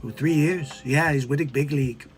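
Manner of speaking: lightly voiced famous figures; a hint of a famous voice; celebrity impressions. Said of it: "It's Elon Musk".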